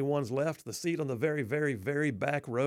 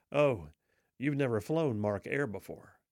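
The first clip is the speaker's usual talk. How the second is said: slow, resigned and deflated; defeated tone; 3 semitones lower, slower than usual. Retold or imitated. Weary passenger in line, defeated and resigned. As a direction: sigh it out like you've given up. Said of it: "in a defeated tone".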